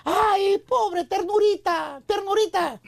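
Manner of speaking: slow, cooing pity; drawn-out pitying girl, lightly voiced; slow mocking tenderness. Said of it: "una mujer que te diga".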